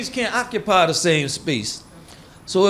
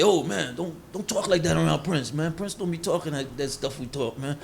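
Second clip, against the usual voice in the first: mock hushed warning; 6 dB quieter than usual. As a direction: drop the voice like friends warning each other. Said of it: "they say".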